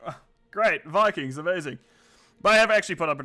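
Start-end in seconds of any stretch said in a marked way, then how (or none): 0.1-1.8 underwhelmed imitation of one's own reaction; mock enthusiasm. Caster answering the fans' hype, mock enthusiasm. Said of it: "I'm like".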